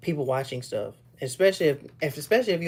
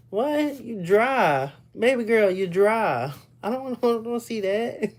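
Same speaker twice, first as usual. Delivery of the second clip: mock scolding; 7 semitones higher than usual. Mock scolding her dryness.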